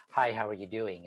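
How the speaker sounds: soft, flat hi how are you doing; monotone greeting. Shown as a demonstration. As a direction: say it with no melody. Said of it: "Instead of".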